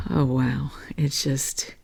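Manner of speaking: choked, near-whispered awe; overcome with emotion. Real, not acted. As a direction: let the feeling catch the breath. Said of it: "I get filled with emotion".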